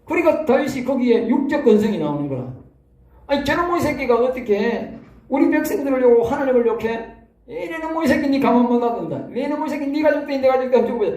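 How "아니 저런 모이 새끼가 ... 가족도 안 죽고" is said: David's indignant outburst. Retold or imitated. David rages at Goliath.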